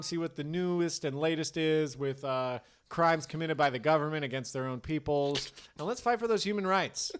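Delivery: earnest public service plug; rally listeners with mock sincerity; mock ad read. Mock sponsor ad.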